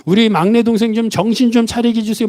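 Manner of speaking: high-pitched, mock-cross plea to God; exasperated grumbling. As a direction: grumble a prayer in acted exasperation. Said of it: "화가 나가지고 막 투덜투덜". (화나서 투덜대듯 높은 목소리로 기도)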